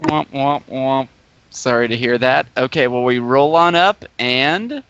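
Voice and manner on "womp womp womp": imitated sad trombone; mock sad-trombone womps. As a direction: womp it out in mock sympathy. Mock sympathy for sore throat.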